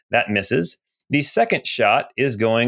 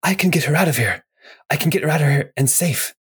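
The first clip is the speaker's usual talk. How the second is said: slightly put-on voice, higher than usual; lightly voiced blue guy; 4 semitones higher, faster than usual. Blue guy to Bortimus about getting her out, lightly acted higher voice. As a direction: lightly play an ally offering rescue, pitched up. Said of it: "The blue guy looks at Bortimus and he says".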